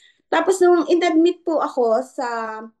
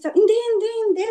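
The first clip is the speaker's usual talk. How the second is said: sharp high no, no, no, pushed out louder; emphatic refusal; 9 semitones higher, 4 dB louder, faster than usual. Retold or imitated. Refusing the young nurse, high and emphatic. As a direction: shut the offer down firmly.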